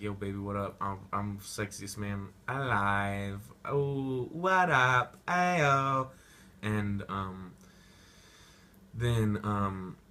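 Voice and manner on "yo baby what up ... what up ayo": loud cocky hype-man; hammed-up swaggering bro; mock party bro. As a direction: strut it at a party. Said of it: "be like".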